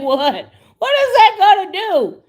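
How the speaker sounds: incredulous, cracking up at the idea; laughing disbelief. Retold or imitated.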